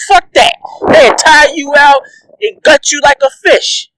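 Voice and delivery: heated ranting yell; heated shout. Real, not acted. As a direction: bark the threat. Ranting at Conor.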